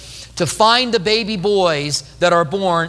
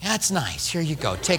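awkward dad; 2 semitones lower, 7 dB quieter than usual. Acted. Dad handing back crying baby.

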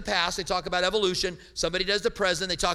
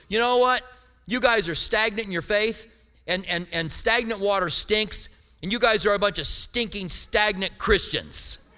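mock scolding. Retold preacher scolding the Christians.

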